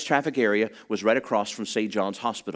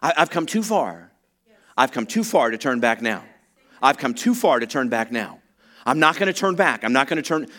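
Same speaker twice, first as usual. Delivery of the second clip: firm declaration with too stressed. Shown as a demonstration. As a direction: model the declaration for the crowd. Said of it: "declare for yourself today".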